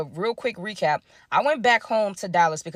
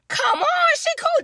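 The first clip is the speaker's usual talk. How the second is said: much higher, mock-reassuring; sarcastic; slower than usual. Real, not acted. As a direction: say it like you don't believe a word.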